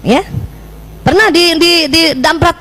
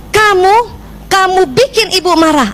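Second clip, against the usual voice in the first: wrong blaming scold; 6 semitones higher, slower than usual. Shown as a demonstration. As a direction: blame the child sharply. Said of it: "itu yang keliru". (omelan menyalahkan anak, lebih tinggi dan keras)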